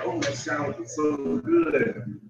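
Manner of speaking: high, slow imitated daughter's voice; mock teasing daughter. Daughter tempting fasting father, high mock teasing voice. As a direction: tease like a kid showing off food. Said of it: "she kept saying".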